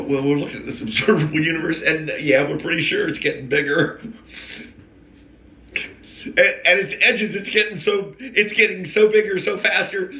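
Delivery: breathless, rushing, rising excitement; excited scientist. Retold or imitated. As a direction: gush like an astonished astrophysicist. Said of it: "They go".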